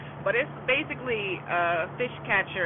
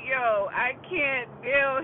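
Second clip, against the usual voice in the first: drawn-out, higher amused groan; cracking up; 4 semitones higher, 3 dB louder, much slower than usual. Retold or imitated. Grandpa reacts to the log catch, cracking up. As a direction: stretch it out as if worn out from laughing. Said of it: "he's cracking up".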